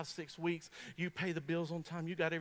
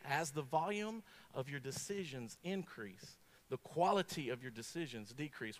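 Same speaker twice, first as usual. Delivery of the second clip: slow repeat; 5 semitones lower, 4 dB quieter than usual. Shown as a demonstration. Preacher repeating the research slowly to the congregation. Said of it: "I'm gonna repeat it again".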